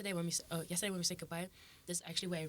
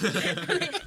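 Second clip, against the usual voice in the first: high bursting laugh; loud laugh; 11 semitones higher, 10 dB louder than usual. Real, not acted. Laughing after hype imitation.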